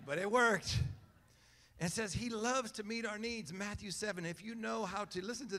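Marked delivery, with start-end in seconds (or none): 0.1-0.8 "But it worked" louder with a hit on "worked"; punchline repeat. Shown as a demonstration. Preacher repeats the punchline to the church, louder. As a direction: land "worked" loudly for laughs.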